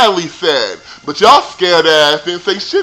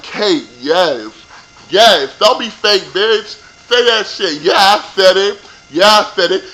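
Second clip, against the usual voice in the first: cheering Kate; 3 semitones higher, 3 dB louder than usual. Retold or imitated. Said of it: "I was like".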